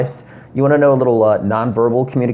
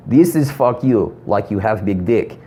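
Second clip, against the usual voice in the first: put-on Russian accent. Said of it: "what my friend Dimitri told me".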